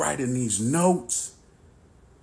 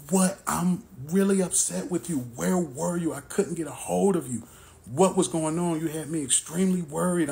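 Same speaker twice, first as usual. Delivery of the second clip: upset confrontation; 6 semitones higher than usual. Retold or imitated. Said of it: "I'm upset at this point".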